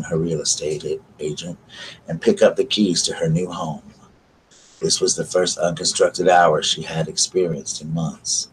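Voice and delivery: calm, even reading of a novel; story narration. Acted. Streamer reads a book excerpt to her viewers, calm narration. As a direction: read the passage aloud, steady and unhurried.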